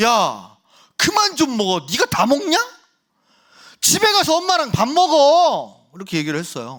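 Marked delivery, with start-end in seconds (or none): 0.0-5.8 acted fed-up, very high, loud, drawn-out angry voice. Retelling an outburst at a youth eating cup noodles: imitating his own angry outburst. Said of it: "너무 빡쳐가지고 진짜".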